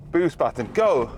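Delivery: thrilled driver hitting boost; excited launch call. Real, not acted. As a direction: call out "go" as you floor it. Launching the car in boost mode.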